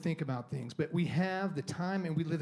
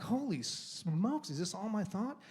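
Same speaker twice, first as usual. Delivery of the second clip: slow amazement; 4 semitones higher, slower than usual. Retold or imitated. Realizing he argues in his head.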